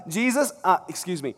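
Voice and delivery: politely awkward, nervous flattery; butter him up before the ask; sheepish interruption. Retold or imitated. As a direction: Peter interrupting Jesus mid-sermon, awkwardly polite. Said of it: "Peter actually kind of interrupted Jesus".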